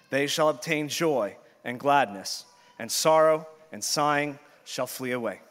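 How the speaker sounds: loud, measured scripture read to the church. Acted. Pastor reading scripture aloud to the congregation, solemn and full-voiced. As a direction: proclaim the verses with weight. Reads scripture before sermon.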